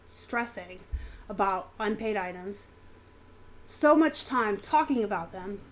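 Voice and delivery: talking around chewing gum. Real, not acted. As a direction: gum in the mouth while speaking. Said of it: "I have gum in my mouth".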